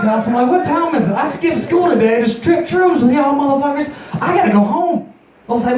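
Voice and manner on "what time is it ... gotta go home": mock panic. Acts panic about going home.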